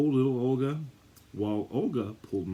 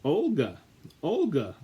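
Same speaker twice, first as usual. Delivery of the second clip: mother calling her daughter, a bit louder; 5 semitones higher, 4 dB louder than usual. Acted. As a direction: call across the yard to Olga. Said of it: "called mother to her daughter".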